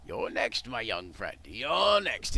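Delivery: menacing goblin voice. Acted. Goblin threatens the rat.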